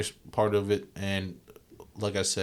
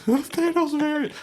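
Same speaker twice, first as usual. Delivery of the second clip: high laughing repeat, slowed; 8 dB louder, slower than usual. Real, not acted. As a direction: crack up while repeating it. Laughing repeat of friend's joke.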